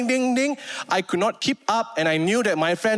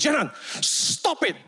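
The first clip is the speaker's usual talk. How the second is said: imitating an angry boss; 7 semitones higher than usual. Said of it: "he suddenly gets angry".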